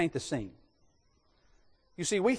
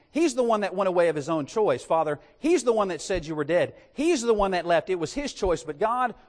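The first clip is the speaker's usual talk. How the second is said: accusing son; 3 dB louder than usual. Acted. Elder son accuses his brother.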